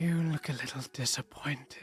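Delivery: hushed creature half-whisper. Voicing a Darkling who speaks to Ulrich: Darkling half-whispering. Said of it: "you do hear the Darkling kind of whisper towards you".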